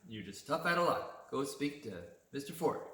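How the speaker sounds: lightly voiced clerk telling him tough luck; curt store clerk. Clerk turning away a customer without a computer, mildly mocking. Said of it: "she said it in that way".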